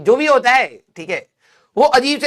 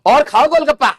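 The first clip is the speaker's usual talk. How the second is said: a hint of a pushy mom, a touch higher and louder; mom impression; 5 semitones higher, 3 dB louder than usual. Mom pressing more golgappas on her kid, mock-doting. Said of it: "ये mummy के जैसे बोला है".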